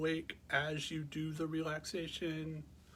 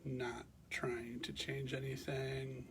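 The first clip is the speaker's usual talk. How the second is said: calm, measured meditation guidance with long pauses; guided meditation; 3 dB quieter than usual. Real, not acted. Teacher guiding listeners to bring awareness to the breath, calm meditation voice. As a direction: guide them gently into rest, leaving space between phrases.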